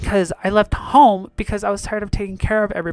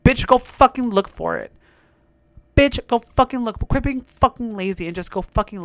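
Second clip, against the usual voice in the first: angry rant; 3 semitones higher than usual. Real, not acted. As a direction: snap it out at the customer.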